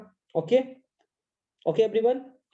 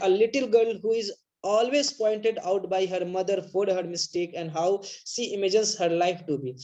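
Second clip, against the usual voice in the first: slow dictation; much slower than usual. Shown as a demonstration. Teacher dictating the summary to students, slow. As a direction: read the note slowly, word by word. Reads out notes.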